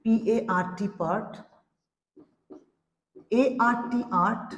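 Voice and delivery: slow letter-by-letter spelling, then the word; spelling out slowly. Shown as a demonstration. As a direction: spell each letter deliberately for the class. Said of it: "ধরো যেরকম পিএআর পার্ট". (ধীরে ধীরে বানান করে বলা)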